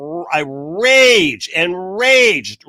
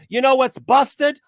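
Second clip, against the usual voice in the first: pointed question, a touch higher and slowed; rhetorical question; 6 semitones higher than usual. Real, not acted. Speaker teasing his viewers before the reveal, pointed rhetorical tone. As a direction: set up the punchline with a knowing question.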